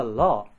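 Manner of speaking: "ロ" as la, the sound Japanese lacks; tongue to upper teeth for "ロ". Shown as a demonstration. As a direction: demonstrate "ロ" with an L. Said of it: "それみんな日本語ない".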